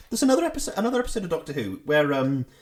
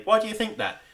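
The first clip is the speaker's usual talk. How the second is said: put-on questioning child; 6 semitones higher than usual. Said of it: "I'd say".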